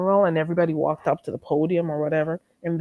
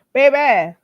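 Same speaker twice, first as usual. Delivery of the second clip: excited; 7 semitones higher, 7 dB louder than usual. Real, not acted. Excited call to chat.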